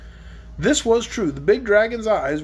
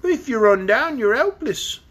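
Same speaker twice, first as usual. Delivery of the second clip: sneering; 4 semitones higher, 3 dB louder than usual. Acted. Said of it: "sneered the dragon".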